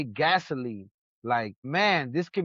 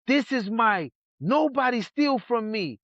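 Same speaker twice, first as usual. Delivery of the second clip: angry; 6 semitones higher than usual. Retold or imitated. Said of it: "He's like".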